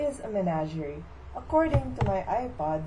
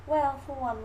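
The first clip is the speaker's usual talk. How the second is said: lightly voiced belle, higher and falling; Southern belle mother; 5 semitones higher than usual. Mother comparing herself to Amanda, lightly put-on genteel. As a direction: begin primly as the mock-genteel mother. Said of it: "Here's my mother to talk about".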